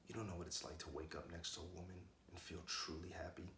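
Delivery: soft, breath-edged and sincere; hushed intimacy. Acted. Man telling a kid what real love is, hushed. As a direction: drop the voice, speak it close.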